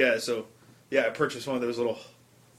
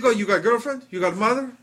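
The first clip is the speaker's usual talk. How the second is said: higher mock-Israeli accent; pushy Israeli salesman impression; 6 semitones higher than usual. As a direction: probe for a sale in an Israeli accent. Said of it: "there was some Israeli dude".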